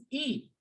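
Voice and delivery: "A" as a single vowel, like ay; French pronunciation. Shown as a demonstration. Teacher explaining the word et, pronounced "A". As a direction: say "A" for written et, T silent. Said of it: "E T is pronounced as".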